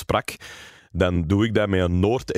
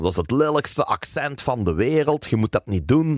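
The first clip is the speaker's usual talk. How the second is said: cross mother; 4 semitones higher than usual. Retold or imitated. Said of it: "Die was ook altijd heel boos op mij".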